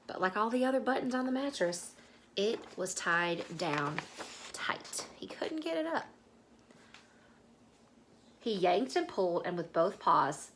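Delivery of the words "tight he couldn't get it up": hushed, breathy storytelling; whispered narration. A narrator's reading. Storyteller whispering as the bear tugs at the button. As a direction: whisper the struggle. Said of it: "whispered narration".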